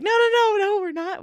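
high, loud, hurried denial; flustered protest. Retold or imitated. Call-center agent correcting a mistaken caller, flustered and high. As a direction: rush to set him straight, voice jumping up.

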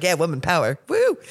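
cheering him on, playfully hyped; excited cheer. Retold or imitated. Retelling her cheer to passenger.

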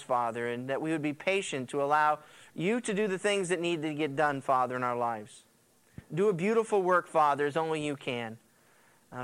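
earnest spoken prayer to God; a pastor's heartfelt opening prayer. Acted. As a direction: pray it humbly, like leading the church. Pastor praying before sermon.

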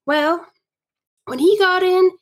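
measured period-story reading; story narration. Acted. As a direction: read it aloud as a storyteller. Reads Laura's story.

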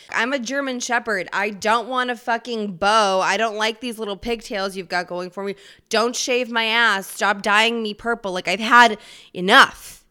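a hint of an indignant dog, building to a shout; pet dog complaining. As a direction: play the dog, sick of being groomed. Dog voiced complaining about grooming.

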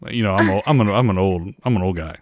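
a hint of a famous singer; impression of a singer. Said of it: "So this is him"

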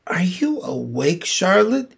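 hushed, breathy wake-up whisper; soft whisper. A narrator's reading. Wilbur whispering up to Charlotte in the corner, softly. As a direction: whisper so as not to wake her. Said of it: "he said softly".

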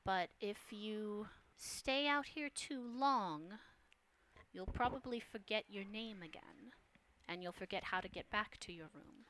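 the mysterious woman warns Holmes to stay in his room, hushed; hushed feminine voice. Acted. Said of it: "you hear the voice above you go".

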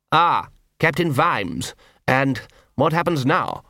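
slow, measured aristocrat; unhurried lordly calm; cool patrician voice. A narrator's reading. Vetinari voiced by narrator.

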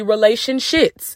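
"relationships" ending in "shits"; punning mispronunciation. Shown as a demonstration. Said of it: "repeat after me".

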